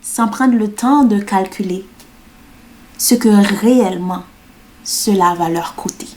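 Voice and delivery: measured spoken-word delivery with long pauses; poem recital. Acted. Performing her poem about saying yes, measured spoken word. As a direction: recite it line by line, deliberately spaced.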